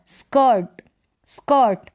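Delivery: स्कर्ट said "skəṭ", r barely voiced; model word. Shown as a demonstration. Teacher drilling spelling sounds, careful pronunciation. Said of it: "एस और के का sound स्क".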